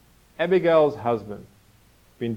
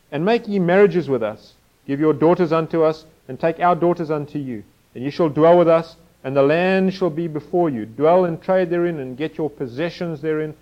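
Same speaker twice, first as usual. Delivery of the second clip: raised, louder Bible-reading voice; scripture reading; 3 semitones higher, 4 dB louder than usual. Acted. Preacher reading the father's request to the congregation, projected scripture reading. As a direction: read the verse out to the room.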